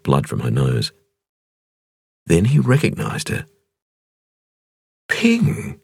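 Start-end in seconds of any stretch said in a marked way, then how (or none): 5.1-5.8 a sudden startled recognition of "Ping"; surprised. A narrator's reading. Cavalier recognizing the injured woman, surprised. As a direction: catch your breath on the name. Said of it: "he said in surprise".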